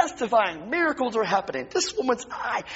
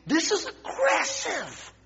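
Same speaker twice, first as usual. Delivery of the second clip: congregation repeat; 12 semitones higher, slower than usual. Shown as a demonstration.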